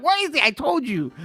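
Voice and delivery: high, loud mock-annoyed snap; jokey sarcastic. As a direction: play the irritated brother as a joke. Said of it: "laughing, jokey, sarcastic way".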